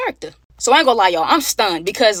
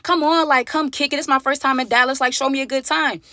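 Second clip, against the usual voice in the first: put-on coaxing girl; 5 semitones higher than usual. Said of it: "She's like".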